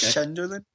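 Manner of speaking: "Sunderland" with sh in place of the opening S; speech impediment. Retold or imitated. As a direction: say "Sunderland" starting with a sh sound. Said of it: "like, a speech thing".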